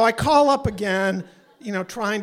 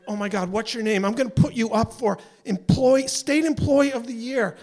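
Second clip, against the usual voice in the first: gushing; 4 semitones higher, 3 dB louder than usual. Retold or imitated. Effusive thanks to helpful agent.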